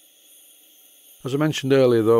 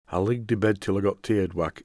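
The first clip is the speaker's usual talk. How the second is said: imitating a grandfather's broad Yorkshire dialect; hard-to-understand broad Yorkshire, words run together; broad Yorkshire accent. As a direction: quote grandad in thick Yorkshire. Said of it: "is what he used to say".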